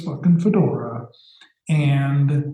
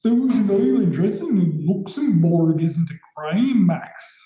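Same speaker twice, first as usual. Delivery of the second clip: mock Scottish accent; 4 semitones higher than usual. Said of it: "Are you trying to do Scottish accent there?".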